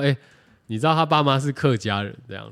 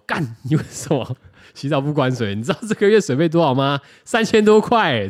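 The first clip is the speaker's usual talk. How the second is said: mock angry scolding, rising louder; mom scolding; 5 semitones higher, 5 dB louder than usual. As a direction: imitate a mother scolding over the water bill. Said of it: "然后被我妈叫去喷".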